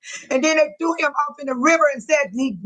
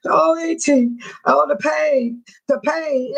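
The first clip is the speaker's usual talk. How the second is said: imitating grieving niece; 3 semitones higher, slower than usual. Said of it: "just dying and crying".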